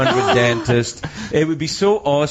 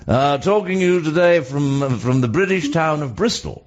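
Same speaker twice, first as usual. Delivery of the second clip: mock-formal broadcaster; lightly put-on announcer voice; very proper. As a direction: deliver it like a proper BBC link. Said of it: "Very, very proper".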